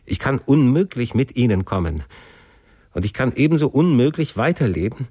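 pleading, pitch rising in waves; understated, urgent desperation; desperate refusal. Acted. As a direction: refuse as a son driven to despair. Desperate son refuses father's command.

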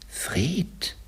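whispered questioning call, rising high. A narrator's reading. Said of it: "flüsterte Scrooge". (fragend geflüstert)

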